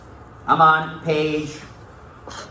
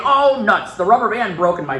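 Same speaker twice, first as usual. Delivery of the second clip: put-on casual kid version; 4 semitones higher than usual. Shown as a demonstration. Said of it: "instead of saying".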